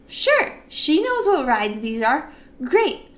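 sarcastic "Sure... Great". Retold or imitated. Narrator going along with Becky, sarcastically high. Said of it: "And I'm like".

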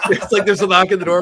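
laughing through the setup; chuckling as he tells it. Real, not acted. Host laughing while spinning the joke, laughing.

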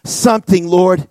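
retold desperate prayer, mildly intense; crying out to God. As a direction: plead with God, then let it drop. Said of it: "I'm crying out to God".

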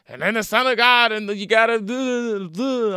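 high, fervent mock sermon voice; high hammed-up street preacher rambling; crazed preacher. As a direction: rant it like a man possessed by scripture. He was going crazy.

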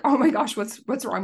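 retold alarm, starting high and loud; alarmed husband. Husband answering his sobbing wife's call, retold as alarmed. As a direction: imitate a worried reaction, easing off quickly. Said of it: "I'm sobbing".

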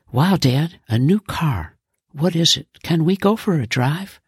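put-on a kid thrilled by a new car; excited boy. Son asking dad about the new car, excited.

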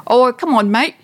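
mock a film actor's overdone Aussie accent; bad Aussie accent. Film-goer imitating the actor's botched Murdoch, hammed-up Australian accent. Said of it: "It wouldn't be easy to do his accent, but this was".

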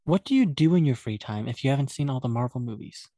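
normal talking voice

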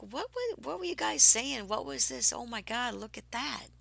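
high, loud bewildered questions; stunned and asking the group what happened; astonished. Retold or imitated. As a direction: blurt it out in disbelief. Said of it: "I was like".

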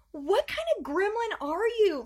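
high, slow incredulous question. Retold or imitated. Mom retelling her shock at the grinning four-year-old, high. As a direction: ask it in high disbelief. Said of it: "I'm like".

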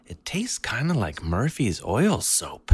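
slow whispered deadpan; slow hushed verdict, deadpan; whispered dad verdict. Retold or imitated. Dad at dinner whispering slowly about the soap taste.

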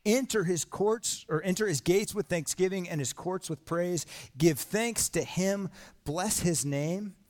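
slow, lifted reading of the call to praise; scripture reading. Acted. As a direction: raise the voice on the invitation, unhurried. Reads psalm aloud to congregation.

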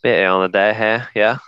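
put-on British accent. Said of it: "in a British accent".

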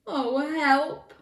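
high, feeble-hearted plea; whimpering lion. A narrator's reading. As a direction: whimper like a scared storybook lion. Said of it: "whimpered the lion".

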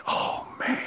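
breathy whispered oh man, soft and heavy; hushed dismay. Retold or imitated. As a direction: let it slip out under your breath. Retold dread of confessing.

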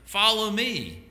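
high, drawn-out summons; calling out. Acted. Jesus calls out to James and John, high calling voice. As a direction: call it out slowly to people further off. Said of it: "and calls out to them".

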